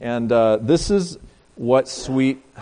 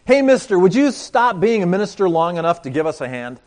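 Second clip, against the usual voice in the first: put-on kids calling out; 5 semitones higher, 4 dB louder than usual. Kids calling across the street.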